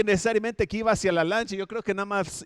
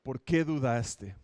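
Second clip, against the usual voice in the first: mild rebuke; slower than usual. Retold or imitated. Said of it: "lo reprendió".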